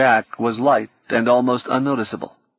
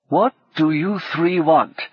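put-on grumpy old man; 6 semitones higher, slower than usual. A narrator's reading. Grumpy old hacker cuts her off.

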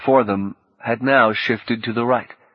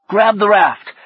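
high, louder command; firm order; 11 semitones higher, 6 dB louder than usual. A narrator's reading. Fredericks directing Orlando to grab the raft, firm. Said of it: "Fredericks directed".

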